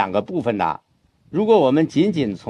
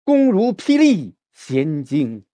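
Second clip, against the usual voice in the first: slow reading, 霹雳 struck hard; slow model with 霹雳 stressed; 3 semitones higher, much slower than usual. Shown as a demonstration. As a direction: hit 霹雳 like a thunderclap. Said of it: "再来".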